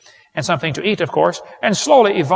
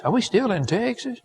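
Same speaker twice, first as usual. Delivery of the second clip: mock driver; 6 semitones higher, 6 dB quieter than usual. Imitating a weary Texas driver.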